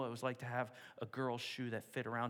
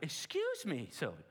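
high, loud mock scolding mother; a mother correcting her grabby child; mother scolds Sylvia for yelling, in a high mock-stern voice; 10 semitones higher, 3 dB louder than usual. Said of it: "her mother went".

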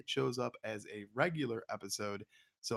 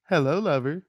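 breathy vintage purr; 3 semitones higher, 9 dB louder than usual. Acted. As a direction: purr it like an old film siren. Sultry podcast greeting to co-host.

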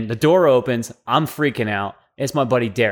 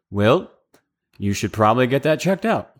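deadpan, unruffled understatement; calm voice; 2 semitones lower than usual. Retold or imitated. Commander after seeing the injury, in the calmest voice. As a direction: imitate a commander staying utterly composed. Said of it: "in the most, like, calm voice".

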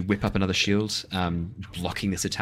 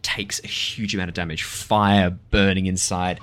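dramatic narration; slower than usual. Acted. GM narrates plant exploding.

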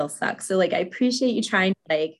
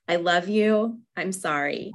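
gentle comfort. Shown as a demonstration.

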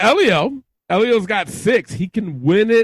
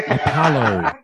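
lazy imitation of Clay; 8 semitones lower than usual. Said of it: "He goes".

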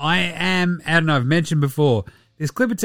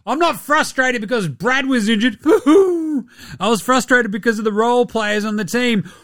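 mocking Kevin Durant; 9 semitones higher than usual. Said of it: "K D doesn't want to get traded".

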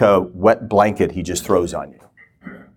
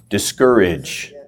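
drawn out, weighty, slow; slow deliberate delivery; slow emphasis; much slower than usual. Shown as a demonstration. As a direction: lay the word out slowly for the notes. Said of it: "Here's the third one".

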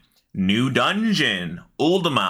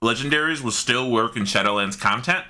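talking around a bite of Slim Jim; trailing off while eating; mouth full. Real, not acted. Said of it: "the tonation of that was like, dot, dot, dot".

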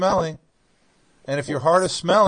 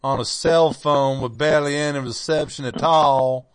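put-on North Carolina accent. Apologizing for technical difficulties, in a North Carolina accent. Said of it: "This is my North Carolina accent".

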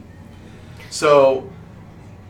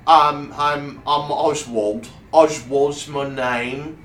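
slightly raised, hesitant little character voice; lightly voiced timid gnome; 4 semitones higher, 4 dB louder, slower than usual. Gnome volunteer giving his name to the wizard, mildly hesitant. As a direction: stumble a bit over the introduction.

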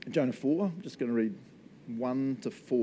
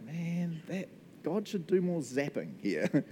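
mock judgmental grumble; 5 semitones higher, 4 dB quieter, slower than usual. Voices inner judgmental grumble.

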